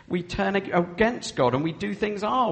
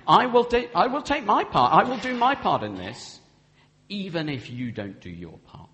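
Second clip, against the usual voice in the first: louder, higher, determined promise; firm vow; 3 semitones higher, 5 dB louder than usual. Shown as a demonstration. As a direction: declare it boldly, like a vow. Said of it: "So that's saying".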